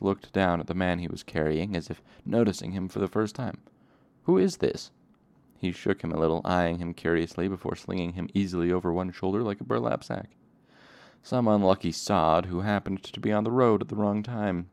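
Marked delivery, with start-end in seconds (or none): 4.2-4.9 high, loud startled question; surprised. Acted. 11.2-14.7 dismissive. Acted. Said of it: "Coat said dismissively".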